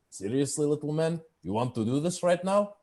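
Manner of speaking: mildly incredulous, pitch climbing to the question; lightly voiced baffled cook; perplexed orc cook. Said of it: "is just perplexed".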